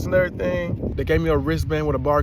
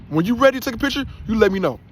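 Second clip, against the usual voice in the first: 1 sarcastic; 6 semitones higher, much faster than usual. Retold or imitated. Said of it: "they was like".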